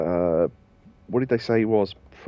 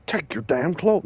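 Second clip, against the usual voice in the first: put-on voice; 5 semitones higher than usual. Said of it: "gave him Gary Buster Holmes voice".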